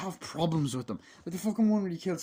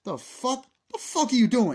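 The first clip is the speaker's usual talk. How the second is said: higher, louder outraged shout; angry yell; 11 semitones higher, 11 dB louder than usual. Retold or imitated. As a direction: bark it at the intruder. Character yelling at Michael.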